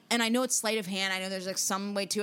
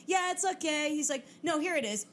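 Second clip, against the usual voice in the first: high, sing-song showy magician; 8 semitones higher than usual. Retold or imitated. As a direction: tease like a campy host. Magician voiced in story.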